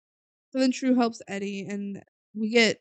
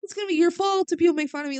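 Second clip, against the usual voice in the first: mocking whine; 8 semitones higher, faster than usual. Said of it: "And you said".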